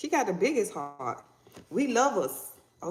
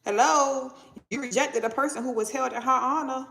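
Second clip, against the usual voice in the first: lightly voiced spirit, pitched higher; insistent spirit; 4 semitones higher than usual. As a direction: call out to get their attention. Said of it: "This person's spirit is like".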